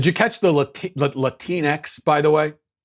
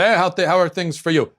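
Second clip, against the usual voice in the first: mock candidate; 5 semitones higher than usual.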